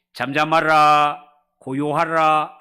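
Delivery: slow, loud commanding words; stern rebuke. Retold or imitated. Jesus rebuking wind and sea, slow stern command. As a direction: order the storm to be still. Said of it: "바람을 꾸짖으시며".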